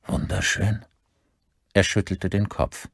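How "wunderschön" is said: questioning, doubtful repeat; disbelieving echo. A narrator's reading. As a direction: throw the word back as a question. Father echoes son's word in disbelief.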